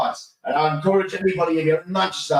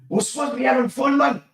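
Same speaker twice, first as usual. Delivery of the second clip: mock scolding shout; 8 semitones higher than usual. Woman scolding him after losing.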